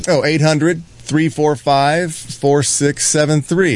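slow and clear, digit by digit; slow number read. Shown as a demonstration. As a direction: spell out each digit slowly. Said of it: "reading out the number slowly".

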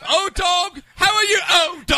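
high, very loud mock hail; hammed-up greeting shout. Host greeting caller, hammed-up high shout. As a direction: holler a silly welcome.

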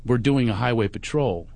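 smooth-talk it in a calm, easy voice. Retold or imitated. Comedian sweet-talking the cop out of a ticket, very calm. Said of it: "I'm talking to him very calmly".

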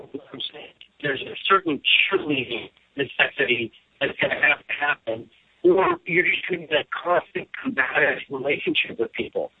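buzzy glitchy call audio; choppy cutting-out phone line; breaking up call audio. Real, not acted. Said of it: "You're breaking up".

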